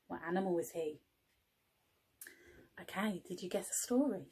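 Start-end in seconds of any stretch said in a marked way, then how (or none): 2.8-4.3 a quick, secretive whisper to the class. Real, not acted. Teacher whispering to her class, hushed and quick. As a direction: lean in and whisper the question.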